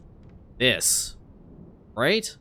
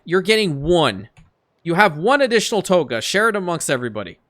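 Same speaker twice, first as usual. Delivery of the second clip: frustrated rant; 3 semitones higher, 4 dB louder than usual. Real, not acted. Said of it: "That, that was my rant done".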